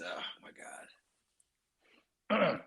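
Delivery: breathy whisper, then God pops up high; hushed oh my God rising into a squeak. Real, not acted. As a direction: whisper it in disbelief. Whispered disbelief.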